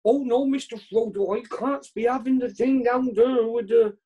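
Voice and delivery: lightly put-on fretting hobbit voice; mild character voice, pleading with his master; Sam Gamgee. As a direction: play a worried, loyal servant. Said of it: "Sam Gamgee".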